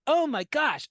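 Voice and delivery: playful "can't believe it" exclamation; amazed realization. Acted. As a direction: act out spotting a family likeness. Acted reaction to seeing a resemblance.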